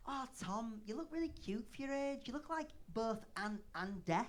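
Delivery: a hint of a kindly girlfriend's voice; sweet female friend. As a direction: coo a compliment, gently imitating a woman. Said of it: "my female friend said to me".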